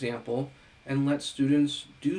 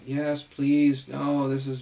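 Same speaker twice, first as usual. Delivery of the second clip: louder, put-on mock voice of a complacent president; mock complacent Trump; 6 dB louder, slower than usual. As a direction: parody a man welcoming supporters. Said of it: "him being very complacent".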